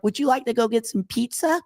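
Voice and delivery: high, put-on hopeful voice; mock eager suitor. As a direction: ask her out all sugary. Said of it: "he's like".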